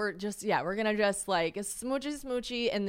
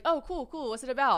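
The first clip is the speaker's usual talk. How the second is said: mock interest; 6 semitones higher, 3 dB louder than usual. Acting date's interested reply.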